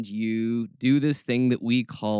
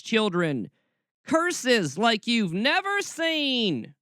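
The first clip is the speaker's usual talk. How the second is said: slow, mock-solemn Southern drawl, rising much higher toward the end; mocking Southern preacher; 3 semitones higher, slower than usual. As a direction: ham up a Southern preacher's warning of curses. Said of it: "when I get mockingly, my Southern roots come out".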